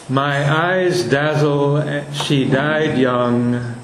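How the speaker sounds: put-on "My eyes dazzle, she died young" measured out slowly, stress on eyes and died; scanned slowly. Shown as a demonstration. Teacher reading Webster's line to scan its feet. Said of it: "are quantitatively Bacchius and Spondee".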